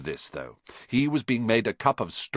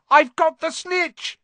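high, loud victory shout; triumphant shout; 5 dB louder, slower than usual. Acted. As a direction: yell it out, thrilled to win. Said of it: "he shouted".

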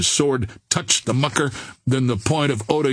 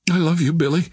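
a plain, sincere declaration, slightly raised voice; said simply; 5 semitones higher, faster than usual. A narrator's reading. Girl confessing love to Billy, said simply. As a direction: declare it simply, without show. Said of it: "she said simply".

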